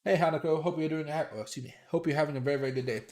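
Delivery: talking through a blocked nose; stuffy-nosed from allergies. Real, not acted. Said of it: "My nose is a little stuffy today".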